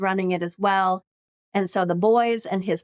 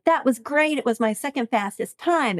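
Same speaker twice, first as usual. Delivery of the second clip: excited; 5 semitones higher than usual. Retold or imitated. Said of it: "I'm like".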